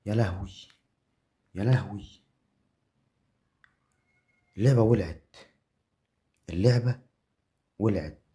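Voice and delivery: hyped shout; excited shouting. Real, not acted. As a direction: yell in disbelief at the win. Celebrating the win.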